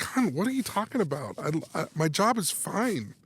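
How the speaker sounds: high, puzzled pleading; mock-defensive, voice lifted; retold baffled protest.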